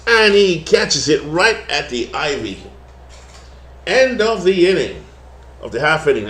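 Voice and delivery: light put-on twang on the game call; twangy play-by-play. Broadcaster back to his twang for the play-by-play. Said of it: "I twang it again".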